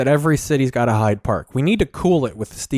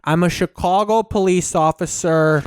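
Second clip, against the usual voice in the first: put-on Chicago accent; 4 semitones higher than usual. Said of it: "Meathead Chicago tries to throw the little".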